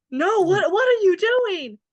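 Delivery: shrill, very high, loud yelling. Retelling a TV scene where Buck yells at Bobby: imitating Buck yelling. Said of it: "Buck is yelling".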